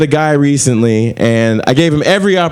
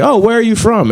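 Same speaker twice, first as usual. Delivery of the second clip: mock Portlander; 8 semitones higher than usual. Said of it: "everybody's like".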